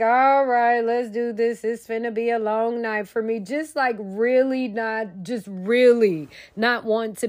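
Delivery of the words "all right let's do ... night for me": bored doctor. Retold or imitated. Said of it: "He like".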